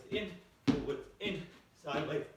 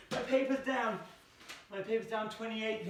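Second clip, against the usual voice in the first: oops; 6 semitones higher than usual. Real, not acted. Teacher spots the paper down mid-count, high dismay. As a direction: yelp at the fallen paper.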